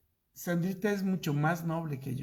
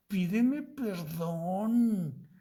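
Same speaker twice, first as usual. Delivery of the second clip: demanding apology; 4 semitones higher, much slower than usual. Retold or imitated. Wife demands apology in bed.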